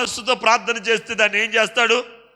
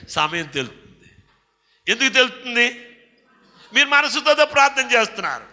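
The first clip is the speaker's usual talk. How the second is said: ordinary talk, nothing marked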